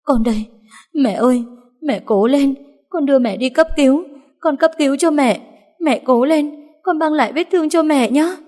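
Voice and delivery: high, tumbling, frightened words; frightened babble. Acted. Daughter frightened for her dying mother, high tumbling babble. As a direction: rush out reassurance in fear. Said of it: "sợ hãi đến nỗi nói năng lộn xộn".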